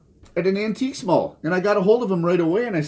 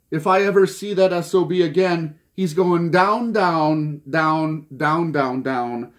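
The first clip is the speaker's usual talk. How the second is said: mock quote of a singer; slower than usual. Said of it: "he also said".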